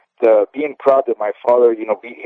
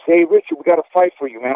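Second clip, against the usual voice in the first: coach calling out; 6 semitones higher than usual. Retold or imitated. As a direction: call out to Richard like a coach with a fight ready. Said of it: "the coach was".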